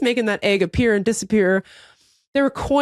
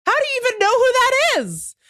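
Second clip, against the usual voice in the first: high, bewildered disbelief; incredulous question; 13 semitones higher than usual. Retold or imitated. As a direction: ask it like it makes no sense, pitched up. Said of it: "I said".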